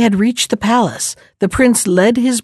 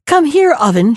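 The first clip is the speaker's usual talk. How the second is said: mild raised call to the oven; crying out; 5 semitones higher than usual. Acted. Maiden cries out to the oven, a mild summons. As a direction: summon the oven with a light lift. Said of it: "she cried".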